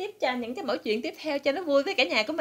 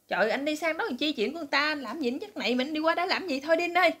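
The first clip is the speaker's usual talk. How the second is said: wife's voice; 6 semitones higher than usual. Retold or imitated. Wife voiced in retold joke.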